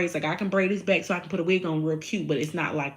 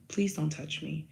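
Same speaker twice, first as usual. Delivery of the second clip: polite; 7 dB quieter than usual. Shown as a demonstration. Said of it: "No, I say".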